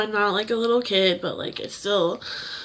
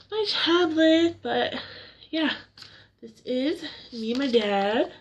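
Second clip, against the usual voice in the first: blubbering; 4 dB quieter, slower than usual. Real, not acted. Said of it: "Sorry, I'm crying like a baby".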